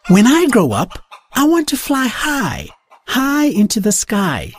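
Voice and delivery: a dreaming chick tells of flying; Daisy the chicken. Acted. Young chicken Daisy tells the farm she will fly, hopeful. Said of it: "Daisy said".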